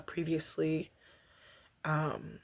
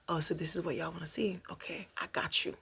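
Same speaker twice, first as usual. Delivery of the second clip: hushed self-quote; 6 dB quieter than usual. Retold or imitated. Imagined reaction to feedback.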